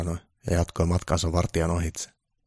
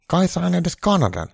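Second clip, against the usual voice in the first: much higher, slow hopeful plea; hopeful Trump; 13 semitones higher, 6 dB louder, slower than usual. Acted. Trump hopefully asking Santa for Canada, high and slow. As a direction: ask hopefully, like a child. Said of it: "Donald kysyi toiveikkaana".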